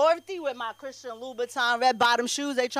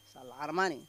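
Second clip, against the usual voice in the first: much lower and softer muttered repeat; muttered aside; 9 semitones lower, 10 dB quieter, much faster than usual. Acted. Aside to the audience about the alimony, low mutter. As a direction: drop it under your breath.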